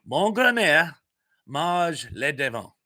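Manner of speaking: deliberate second take of the French line; repeating the French. Shown as a demonstration. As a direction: say it again in your best French. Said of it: "Tell me what I just said, and I will repeat it".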